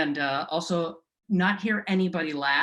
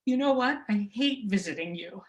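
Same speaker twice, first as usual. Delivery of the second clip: higher, cheeky son backtalking; half-teasing the mother, higher; son answering mom; 5 semitones higher than usual. Retold or imitated. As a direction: son sassing his mom, then softening. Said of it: "like, um".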